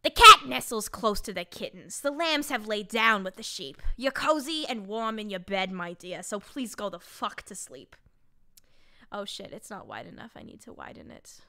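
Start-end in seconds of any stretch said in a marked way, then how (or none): 0.0-7.9 put-on storybook character voice, emphatic; Judith. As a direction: read a bedtime story in a hammed-up persona. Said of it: "reading this in my Judith voice".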